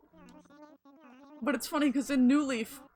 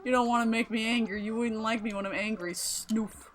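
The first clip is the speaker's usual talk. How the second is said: mock angry villager; 3 semitones higher, 7 dB louder than usual. Reading grumpy villager Pango's dialogue, mock anger. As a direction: read the grumpy villager's lines with mock fury. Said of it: "Pango's effing pissed".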